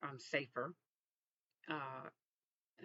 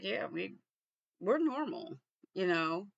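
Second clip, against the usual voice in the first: mock innocent reply; 4 semitones higher, 6 dB louder than usual. Retells own reply to officers.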